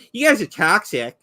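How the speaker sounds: lightly voiced smug game defender; mocking imitation. Streamer apes a rival scolding the community, lightly mocking. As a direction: parody an indignant, self-satisfied fan. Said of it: "look at the community and go".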